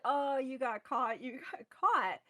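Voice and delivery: drawn-out taunt, lightly imitated; retold teasing. Boys in the car tease him, retold teasing. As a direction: imitate his friends razzing him, stretching the first words.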